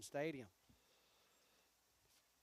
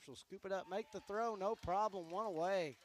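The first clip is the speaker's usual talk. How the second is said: rising, louder play call; building excitement on the out; excited call; 4 semitones higher, 4 dB louder than usual. Real, not acted. Routine play called by announcer.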